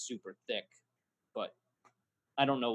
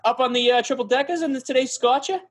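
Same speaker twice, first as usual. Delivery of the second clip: high, hammed-up Boston local; exaggerated Boston accent with dropped r's; mock Boston accent; 9 semitones higher than usual. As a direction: chat like a Boston townie, pitched up. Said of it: "Why are you fucking talking like me".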